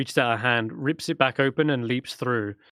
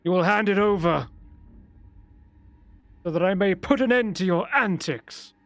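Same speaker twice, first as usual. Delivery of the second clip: put-on higher, commanding old mage's voice; stern old wizard; 7 semitones higher than usual. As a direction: demand the artifact with cold authority. Old wizard makes demand.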